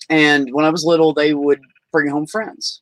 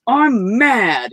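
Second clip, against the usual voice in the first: put-on angry child; 8 semitones higher than usual. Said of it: "I said it just like this".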